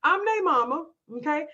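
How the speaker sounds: firm, emphatic declaration; assertive demo. Shown as a demonstration. Coach modelling a parent's answer to doubters, assertive. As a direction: state it with conviction. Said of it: "say it just like that".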